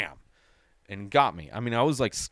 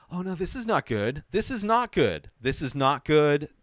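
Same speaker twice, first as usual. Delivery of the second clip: dread; 5 semitones higher than usual. Retold or imitated. Dreading the horror film scene.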